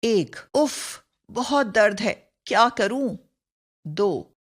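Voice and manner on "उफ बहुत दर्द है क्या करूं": in pain. Shown as a demonstration. Teacher acting out pain for students, mock suffering. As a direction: act out a mild ache. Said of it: "शोक, पीड़ा या ग्लानि सूचक".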